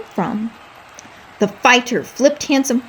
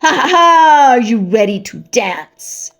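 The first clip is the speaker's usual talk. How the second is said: booming laugh; 2 semitones higher, 6 dB louder than usual. Acted. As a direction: boast with a big hammy laugh. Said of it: "Jorge Garcia cried out".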